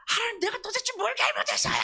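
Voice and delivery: high, loud wailing complaint to God; resentful outburst. Acted. Blaming God in prayer, resentful high cry. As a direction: cry out in hammed-up protest. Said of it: "그냥 막 원망하면서 하는 거예요".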